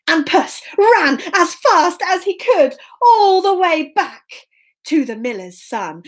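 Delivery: lilting, emphatic storyteller; children's story narration. A narrator's reading. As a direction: savour the key words for young listeners.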